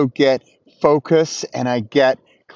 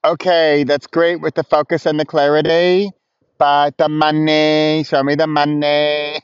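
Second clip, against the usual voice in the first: sing-song sceptic, dragging the last words; mock sceptic. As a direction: stretch out "money" like an impatient doubter. Voicing sceptics demanding money.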